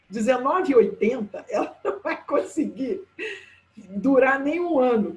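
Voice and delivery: laughing through the words. Real, not acted. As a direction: chuckle while saying it. Laughing at the cheap floor.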